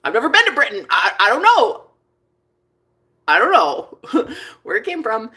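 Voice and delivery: put-on protesting in a British accent. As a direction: put on British, with a little laugh. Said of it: "speak in my British accent".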